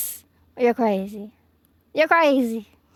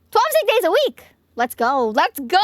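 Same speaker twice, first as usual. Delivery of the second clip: excited cheer; 3 semitones higher, 4 dB louder than usual. Real, not acted. Cheering at a stream milestone.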